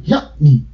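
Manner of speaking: یعنی broken as ya'-ni; stop on ain. Shown as a demonstration. Linguist confirming the host's demonstration, stop on ain. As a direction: catch the throat after ya in یعنی. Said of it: "توقفی رو عین".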